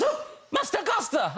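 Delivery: put-on high, drawn-out child impersonation; insistent toddler. Daughter begs dad for the film, insistent toddler. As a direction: stretch out a small child's demand.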